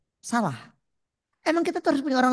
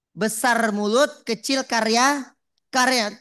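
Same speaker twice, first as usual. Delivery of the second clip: louder, with "karya" hammered home twice; emphatic repeat; 5 dB louder than usual. Shown as a demonstration. Preacher repeating the maxim to the crowd, louder and punchy. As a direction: drive the maxim in hard, louder.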